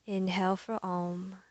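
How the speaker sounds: calm, unhurried yoga teacher cueing; measured meditation voice with long pauses; guided meditation. Real, not acted. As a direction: guide them gently into the breath, leaving space. Leads breathing and intention setting.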